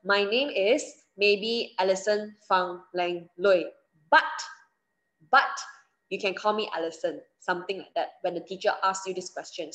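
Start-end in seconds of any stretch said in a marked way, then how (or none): 0.1-7.2 calm, slow, clear self-introduction; slow model answer. Shown as a demonstration. Teacher models a full-name introduction for exam students, slow and clear.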